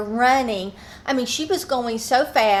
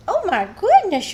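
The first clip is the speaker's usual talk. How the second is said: high, louder swooping coo; 9 semitones higher, 5 dB louder than usual. Real, not acted. Owner sees her sleepy dog, high swooping baby talk. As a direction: gush over a sleepy pet.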